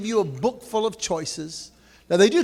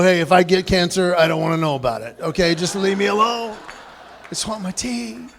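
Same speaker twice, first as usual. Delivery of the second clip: mock irritated. Speaker telling friends to leave him alone, irritated. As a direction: brush off the nagging friends. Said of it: "I go".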